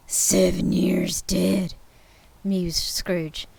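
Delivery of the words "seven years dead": slow, whispered musing. Acted. Scrooge muses to himself in slow whisper. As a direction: think it aloud in a whisper.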